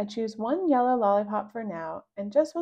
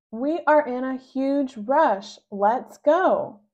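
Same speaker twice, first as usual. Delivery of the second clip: hurried mom; 4 semitones higher, 6 dB louder, slower than usual. Acted. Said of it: "My mom says".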